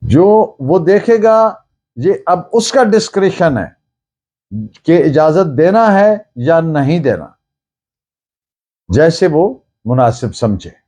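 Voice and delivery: normal talking voice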